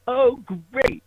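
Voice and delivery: high sarcastic "Oh, great"; squeaky put-upon sigh of a line; imitating supervisor. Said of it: "you can hear her in the background say".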